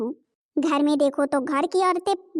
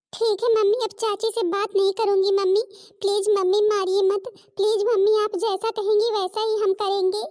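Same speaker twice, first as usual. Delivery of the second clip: frightened pleading; 3 semitones higher than usual. Acted. Girl begs her mother not to hit her.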